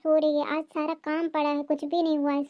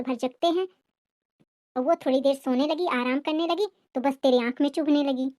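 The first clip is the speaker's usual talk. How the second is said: lightly lowered voice of a complaining mother-in-law; scolding mother-in-law; 2 semitones lower than usual. Acted. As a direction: nag the daughter-in-law with a touch of bitterness. Mother-in-law figure, long scolding.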